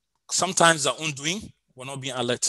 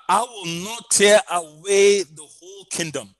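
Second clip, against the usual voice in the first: emphatic scripture reading; 5 dB louder than usual. Acted. Reading God's words with weight.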